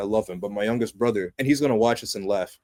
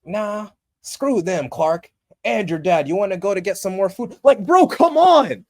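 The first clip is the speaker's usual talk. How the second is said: exasperated mock dad; 6 semitones higher, 6 dB louder than usual. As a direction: drag the words out, then whine come on. Parody of Clark's dad urging him.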